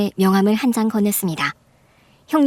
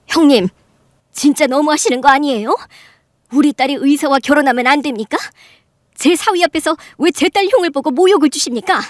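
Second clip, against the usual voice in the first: louder, higher angry protest; angry raised voice; 5 semitones higher, 4 dB louder than usual. Acted. Mother protesting to sister-in-law, angrily raised voice. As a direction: scold her for insulting my daughter. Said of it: "목소리를 높이며 큰 소리로 화를 내고".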